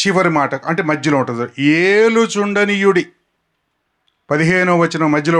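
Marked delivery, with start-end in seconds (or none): 1.6-3.1 emphatic slow call. Shown as a demonstration. Preacher proclaiming the key word for the crowd to repeat.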